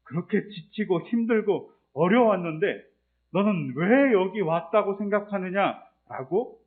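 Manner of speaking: a hint of God's searching question, slow; God questioning Elijah. God asking Elijah why he came, slow and probing. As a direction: ask gently but pointedly, stretching 왜. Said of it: "이건 이렇게 해석될 수 있어요".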